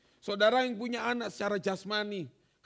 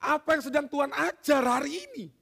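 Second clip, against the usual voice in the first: louder, pleading prayer to God; earnest prayer; 3 semitones higher, 5 dB louder than usual. Pretend. Believer asking God what the lesson is, loud and earnest. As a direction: cry out the question to God. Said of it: "Kita harus bertanya".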